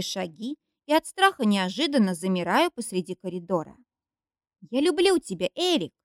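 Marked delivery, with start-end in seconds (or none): 4.7-5.9 high-pitched cry of love; shouting. A narrator's reading. Girl crying out her love to Eric, high shout. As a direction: call it out after him, high. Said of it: "кричит девушка".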